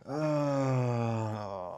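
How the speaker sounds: drawn-out groan, sliding slowly down; long groan. Real, not acted. Streamer stuck working instead of chasing, groaning. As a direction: let out a long, sagging groan.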